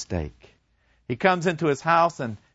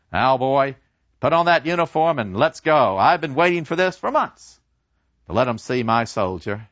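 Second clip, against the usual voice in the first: louder, booming proud dad; father hauling his soldier son to the pub; 3 semitones higher, 5 dB louder than usual. Acted. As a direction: show off your son to the pub. Father insists.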